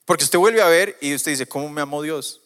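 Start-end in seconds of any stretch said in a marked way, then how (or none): 1.5-2.4 incredulous question. Retold or imitated. Preacher voicing a doubter, raised and incredulous. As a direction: ask it like you can't believe it.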